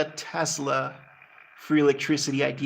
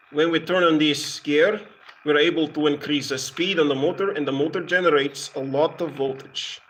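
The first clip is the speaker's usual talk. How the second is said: a light mock Russian accent. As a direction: explain the gears in a playful Russian accent.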